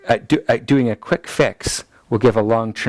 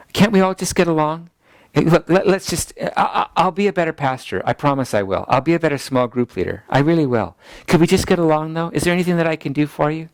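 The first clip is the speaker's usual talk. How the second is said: pleading people-pleaser; 5 semitones higher than usual. Acted.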